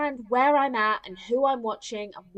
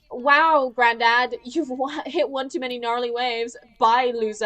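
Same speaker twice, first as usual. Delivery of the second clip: mock dismissive teen; loud, scornful brush-off, hammed up; Malia; 5 dB louder than usual. Mimicking the heroine brushing off Granddad, mock-scornful. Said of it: "she's like".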